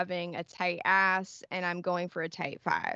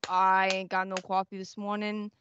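put-on deadpan, threatening Boston accent; calm Boston accent. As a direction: grumble calmly in a Boston accent. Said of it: "In your best Boston accent".

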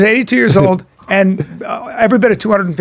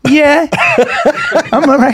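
higher, curt irritated reply; mad retort; 4 semitones higher than usual. Retold or imitated. Son imitates dad after his fall, mad retort. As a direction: imitate an annoyed dad brushing it off. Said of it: "he was so mad".

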